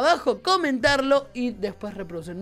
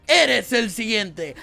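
slow, drawn-out ominous doctor line; slow menacing doctor; 3 dB louder, much slower than usual. Retold or imitated. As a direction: read it slowly like a creepy surgeon. Reads doctor's line in game.

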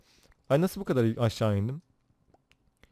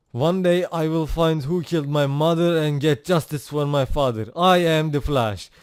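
a hint of a dramatic trailer narrator; Flash intro narration; 5 dB louder than usual. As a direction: read it like the show's opening. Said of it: "Previously on Flash". (hafif dramatik dizi açılışı anlatıcısı)

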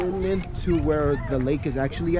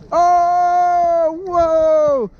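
higher, louder delighted gasp; surprised whoa; 10 semitones higher, 6 dB louder than usual. Real, not acted. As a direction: react amazed to the snow angel. Watching a snow angel.

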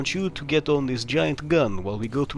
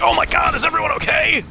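much higher and louder, hammed-up alarm; mock shocked concern; 6 dB louder than usual. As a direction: gasp it out as if you just saw the train crash. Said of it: "and I'm like".

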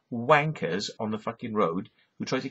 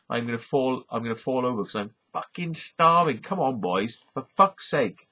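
Welsh lads' talk. Retold or imitated. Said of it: "It's like this".

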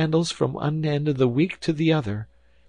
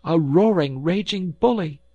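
high, loud name-calling; furious wife; 11 semitones higher, 7 dB louder than usual. A narrator's reading. Wife calling husband a bully, high loud fury. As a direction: fling the insult in a high, outraged voice.

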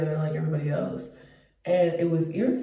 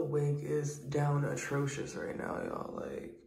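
unvoiced, slow whispered oh my fuck; whispered groan; 7 dB quieter, slower than usual. Real, not acted. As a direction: breathe it out in dismay. Exhausted whisper at wig.

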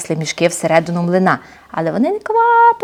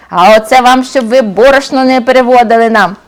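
копняк; 3 semitones higher, 4 dB louder than usual. Acted. Привид дає копняка.

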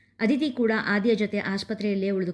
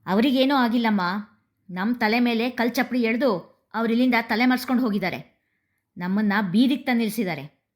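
louder, bitter outburst; with rage; 2 semitones higher, 3 dB louder than usual. Acted. Son telling his mother the father fled, raging. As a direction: spit out the betrayal, loud and bitter. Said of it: "ಆಕ್ರೋಶದಿಂದ ನುಡಿಯುತ್ತಾ".

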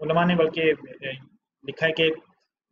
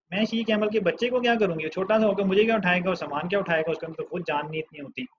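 higher-pitched, mildly acted astonishment; baffled protest; 4 semitones higher than usual. Woman puzzled at being offered a baby camel, baffled protest. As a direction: retell her puzzled objection, pitched up, easing off at the end. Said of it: "ये सुन के हैरान है".

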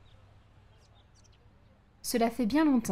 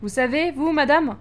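eager, a bit louder; greedy customer; 3 semitones higher, 4 dB louder than usual. Acted. Customer eagerly asking Juliette about the inheritance. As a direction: chase the money eagerly. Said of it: "greedy market customer".

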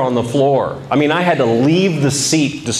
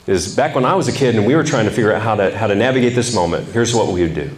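a hint of a low, easy old man; lightly voiced grandfather sharing a trick, fast then slowing; grandfather's advice; 4 semitones lower than usual. Grandfather tells his grandson an old trick, low and easy. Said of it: "uh, he said".

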